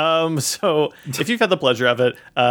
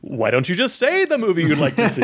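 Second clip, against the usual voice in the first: Moviefone impression; 4 semitones higher than usual. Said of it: "that episode of Seinfeld where people kept calling Kramer".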